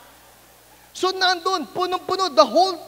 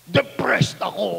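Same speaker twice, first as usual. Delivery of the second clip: mock depressed kid; 5 semitones lower than usual. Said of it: "binabalibag niya yung anim".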